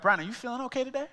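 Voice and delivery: fast, high, laughing check-in; retelling a friend's coded warning with a laugh; laughing code phrase. Retold or imitated. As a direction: ask it through a laugh, quickly. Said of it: "he'd be like".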